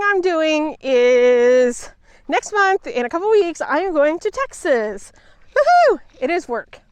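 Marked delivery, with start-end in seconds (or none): 5.5-6.0 high, loud whoop; cheering. Real, not acted. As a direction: whoop with joy. Cheering about Texas.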